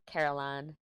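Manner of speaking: her own accent showing on "Caroline"; Southern accent on "Caroline". Shown as a demonstration. Speaker showing a name she can't say without an accent, accented. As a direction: let the accent through on "Caroline". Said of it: "certain words I can't say without an accent".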